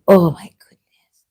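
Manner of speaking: hushed, breathy oh my goodness; whispered gasp. Retold or imitated. Whispering in disbelief at the video. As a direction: whisper it in shock. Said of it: "I was like".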